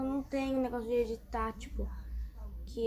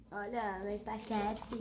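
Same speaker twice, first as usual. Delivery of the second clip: joking; 5 dB quieter, slower than usual. Pretend. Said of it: "Tô brincando".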